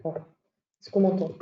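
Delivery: distant, off-mic voice; speaking too far from the microphone. Real, not acted. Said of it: "On t'entend très loin".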